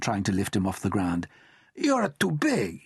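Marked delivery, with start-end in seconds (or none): 1.7-2.8 mock sad. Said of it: "putting on his sad clown face".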